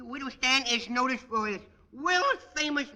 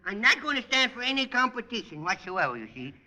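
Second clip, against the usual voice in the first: put-on bratty kid voice; 3 semitones higher than usual. Junior character voice throughout.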